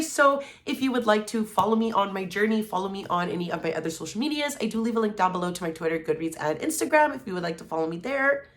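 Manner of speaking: breathless, gasping between phrases; running out of air mid-sentence; out of breath. Real, not acted. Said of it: "Not me running out of breath".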